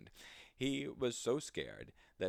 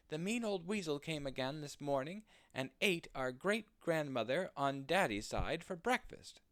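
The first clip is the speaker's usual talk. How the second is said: little rabbits crying out; 8 semitones higher than usual. Acted. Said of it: "cried the little rabbits".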